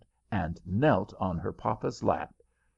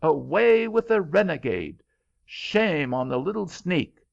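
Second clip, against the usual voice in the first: high, loud angry cries; an excited crowd shouting at the girl; crowd yelling; 9 semitones higher, 6 dB louder than usual. A narrator's reading. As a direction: yell them out like a mob. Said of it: "kept yelling".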